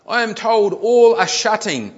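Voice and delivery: loud, high, slow mock yell; all-caps shouting. A narrator's reading. Customer posts in capitals about shops shutting, mock shouting. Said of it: "in capitals".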